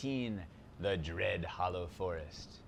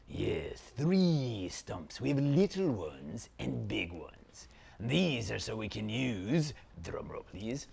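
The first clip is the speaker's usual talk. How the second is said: slow, theatrical villain; dark lord. Acted. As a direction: savour every word like an evil prince. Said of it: "Zaltar, Prince of Phantasm".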